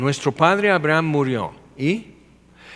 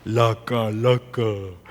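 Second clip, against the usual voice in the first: mock spooked; much slower than usual. To someone watching death pass by, mock spooked. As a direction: act out a stunned gasp at an apparition. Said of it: "pero no estás así".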